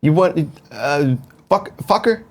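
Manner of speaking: halting, hesitant celebrity impression; Robert De Niro. Co-host attempting his promised impersonation, halting star impression. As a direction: try out a movie-star voice, haltingly. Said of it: "I'll do my, uh, Robert De Niro impersonation".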